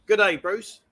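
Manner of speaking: Australian greeting demo; Australian accent. Shown as a demonstration. Host shows the proper phrase after "bruv", Australian accent. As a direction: set the Australian accent right. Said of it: "That's Australian".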